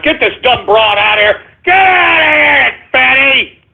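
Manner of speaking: shouting. Acted. Shouting caller off air.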